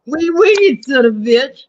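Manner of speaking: very high, loud joke French accent. Shown as a demonstration. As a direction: squawk it in a silly French accent. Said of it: "That's my French accent".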